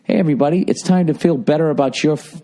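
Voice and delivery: bright read-aloud host voice, slowing at the end. Shown as a demonstration. Host reading a book aloud to his listeners, mock inspirational. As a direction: open like a self-help audiobook. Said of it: "wanna listen to me read out loud".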